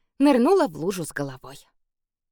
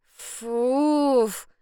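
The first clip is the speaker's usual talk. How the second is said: disgusted puff; 5 semitones higher than usual. A narrator's reading. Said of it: "скривилась".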